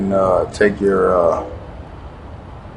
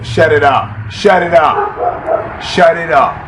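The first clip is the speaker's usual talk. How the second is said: scolding a dog; 7 semitones higher, slower than usual. Real, not acted.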